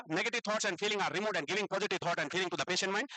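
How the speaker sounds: slow, even dictation pace; dictating notes. Shown as a demonstration. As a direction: read the definition out slowly so they can write. Dictates the definition. (Notes लिखवाते हुए धीमी आवाज़ में)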